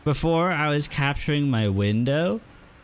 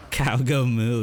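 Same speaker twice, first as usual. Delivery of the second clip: usual speaking voice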